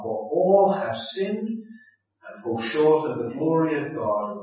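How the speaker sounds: measured, solemn Bible reading; scripture reading. Acted. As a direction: read the passage steadily, like a lectern reading. Reads Romans aloud before sermon.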